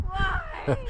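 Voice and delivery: high, loud wail of why; anguished cry. Real, not acted. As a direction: wail to the sky after a fall. Crying out after falling on skis.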